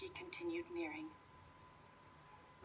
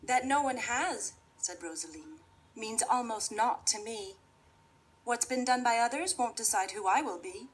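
put-on confident girl voice; 4 semitones higher, 5 dB louder than usual. Rosaline tells wolf.

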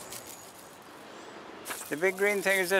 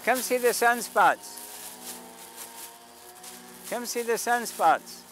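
calling out; 3 semitones higher, slower than usual. Real, not acted. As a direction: invite passersby to look, drawn out. Calling out to passersby.

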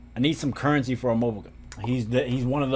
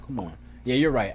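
usual speaking voice

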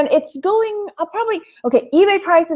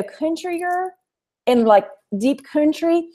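thicker country accent; 5 semitones higher, slower than usual. Shown as a demonstration. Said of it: "I'll make it thicker".

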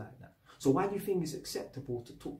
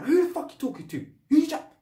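acted-out furious outburst, pitched way up; high-pitched, indignant confrontation; mad; 13 semitones higher, 5 dB louder than usual. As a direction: re-enact losing your temper, high and loud. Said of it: "I went mad".

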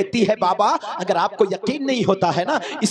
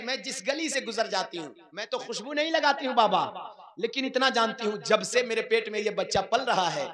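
much softer, gentle and hushed; soft hushed retelling; 8 dB quieter than usual. Acted. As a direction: say it softly, almost to yourself, as Amna. Same answer repeated softly. (धीमी और नरम आवाज़ में कोमल दोहराव)

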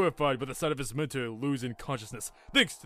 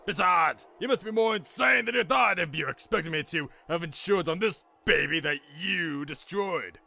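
raised-pitch irritated professor; indignant snapping; 4 semitones higher than usual. Acted. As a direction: argue back with mounting indignation. Professor snaps back about insurance.

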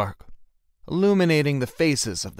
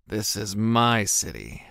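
growled; slower than usual. Acted. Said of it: "he growled dangerously".

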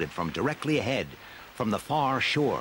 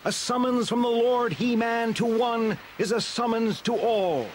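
Stratos crying out; 12 semitones higher than usual. Acted. Stratos offering to carry Tila, calling out boldly.

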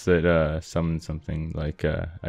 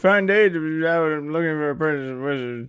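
higher merchant character voice; shopkeeper voice; 8 semitones higher than usual. Acted. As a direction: play the game merchant. Voicing a game shopkeeper.

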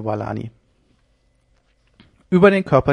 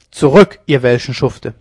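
much louder war cry; defiant shout; 9 dB louder than usual. Acted. Jan Norris facing the Genoese, defiant shout. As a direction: drive them back with a roar.

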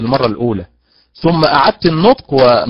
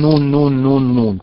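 نون repeated, each one leaned on; teacher drilling the stressed syllable; stress demo. Shown as a demonstration. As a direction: tap out نون again and again. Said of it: "على حركة النون".

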